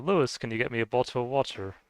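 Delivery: badly imitated British English accent, slipping toward Scottish; butchered British accent. Streamer imitating friend asking for water, butchered British accent. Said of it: "I butcher it kinda like a Scottish shortbread".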